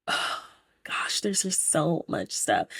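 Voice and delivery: sigh, then whisper it to yourself; a breathy overwhelmed murmur under the breath; whispered aside. Real, not acted. Whispering to herself while recapping, overwhelmed.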